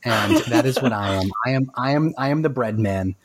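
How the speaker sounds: lightly hammed French movie accent; a touch of silly French accent; imitated French accent. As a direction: quote the film in a mock French accent. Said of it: "I'm doing the accent again".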